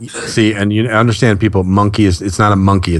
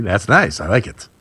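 ordinary talk, nothing marked

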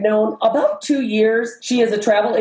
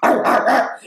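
mock growl; 3 semitones higher than usual. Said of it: "and she's like".

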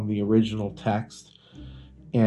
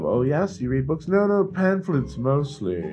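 raised, mock-refined club voice; posh reading club snob; 4 semitones higher than usual. Host mocking a snooty book club member, higher and hammed-up. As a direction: play a pompous book snob bragging.

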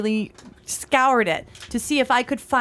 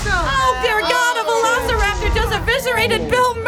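horrified cry; 7 semitones higher, 3 dB louder than usual. Acted. Acted dinosaur attack on tour.

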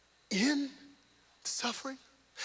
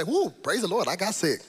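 mock praise; 7 dB louder than usual. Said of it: "You have to say".

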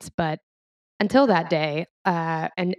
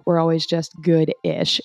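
"good-ish" with the weight on "ish"; stress on ish. Shown as a demonstration. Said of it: "Emphasis on that ish".

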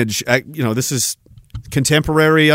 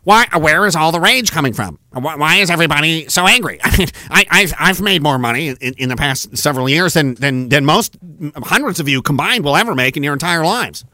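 lower, condescending rich-man mock voice; smug millionaire; 3 semitones lower than usual. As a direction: play the patronizing tycoon talking down to workers. Mocking the millionaire's speech.

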